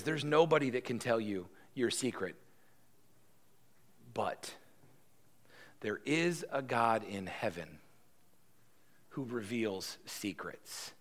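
Daniel revealing God to the king; long dramatic pause. Acted. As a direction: hold back, then reveal gently. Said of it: "this long dramatic pause in my mind".

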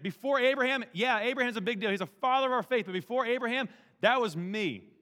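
preacher declaring with full force, "Before Abraham" ringing out; emphatic proclaiming. Retold or imitated. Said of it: "It's like".

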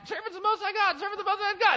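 high, loud singsong mimic of the girl; mocking repetition. The girl repeating her cry at Paul, high and nagging. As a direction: squeal it over and over, nagging. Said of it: "you're always just like".

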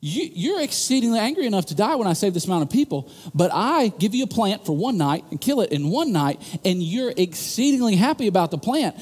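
a hint of God gently cornering a sulking Jonah; God pleading with Jonah. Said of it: "And here's God going".

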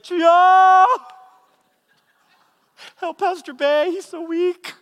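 put-on high, loud old woman crying out to God; loud shouted prayer. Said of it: "I hear her praying for me so loudly".

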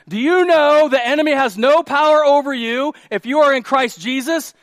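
high, very loud preaching repeat. Real, not acted. Preacher repeats for people in the back, loud and emphatic. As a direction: project it to the back row. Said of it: "again for the people in the back".

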